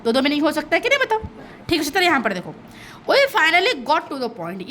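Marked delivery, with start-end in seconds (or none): 3.1-4.7 slow reading. Shown as a demonstration. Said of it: "ये जो दिया है".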